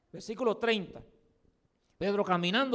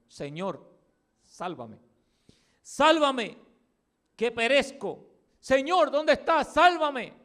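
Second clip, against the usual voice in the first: rising to a desperate shout, much higher and louder; desperate cry for help; 6 semitones higher, 5 dB louder, slower than usual. Acted. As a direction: cry out like a drowning man begging to be saved. Pedro clama mientras se hunde. (grito desesperado de auxilio)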